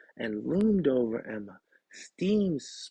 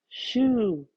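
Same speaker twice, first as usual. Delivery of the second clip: much higher, louder squeak; 9 semitones higher, 7 dB louder than usual. Acted. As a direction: shoo it away from the covers. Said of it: "Emma squeaked".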